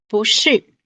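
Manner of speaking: 不是 with 不 rising, 是 falling; bú shì demo. Shown as a demonstration. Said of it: "四声".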